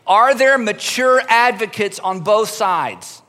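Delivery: slow, deliberate, each word weighed; slow emphasis. Shown as a demonstration. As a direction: spell the question out slowly. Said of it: "repeats it".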